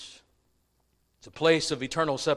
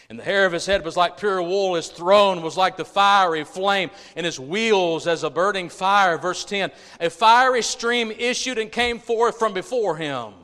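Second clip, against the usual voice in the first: loud, driving Bible reading; preaching scripture reading; 5 semitones higher, 7 dB louder than usual. Acted. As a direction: proclaim the verse with rising force. Reads scripture with force.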